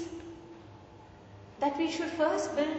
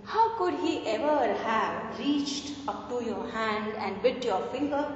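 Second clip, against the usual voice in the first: mock caressing. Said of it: "Now he starts caressing the puppy".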